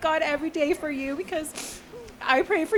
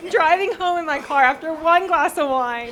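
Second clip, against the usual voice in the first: emotional laugh. Real, not acted. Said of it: "I am already overly emotional".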